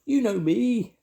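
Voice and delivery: very high, loud squeaky voice; mouse squeak. A narrator's reading. Sam introducing himself to Grandma, loud squeak. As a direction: pipe up loudly as a mouse. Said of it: "squeaked Sam Squeak".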